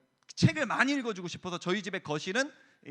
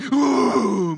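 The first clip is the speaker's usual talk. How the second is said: hammed-up storybook tiger noise; loud, drawn-out mock roar; 2 semitones higher, 11 dB louder than usual. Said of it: "이런 거 이렇게 해주고".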